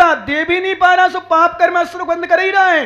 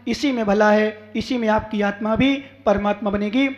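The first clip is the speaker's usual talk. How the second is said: measured sermon counsel; earnest preaching; 4 semitones lower than usual. Real, not acted. Preacher guiding devotees toward true devotion, earnest counsel. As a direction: bring the exhortation to a settled close.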